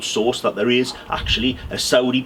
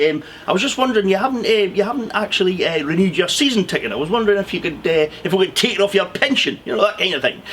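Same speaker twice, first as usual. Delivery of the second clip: mock Bobby Moncur; 5 semitones higher than usual. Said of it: "phone call with Sid".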